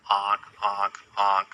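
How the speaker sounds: a light, playful goose honk; honking like a goose for kids. Retold or imitated. Teacher showing children how a goose honks, mock honk. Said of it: "honk goes the goose".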